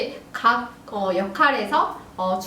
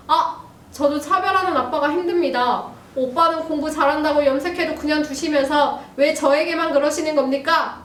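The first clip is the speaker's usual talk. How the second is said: arguing daughter; 4 semitones higher than usual. Acted. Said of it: "이제 따지기 시작을 합니다".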